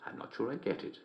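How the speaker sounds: very hushed, hesitant admission; puzzled. Acted. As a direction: say it quietly to yourself, baffled. Host puzzled by the joke.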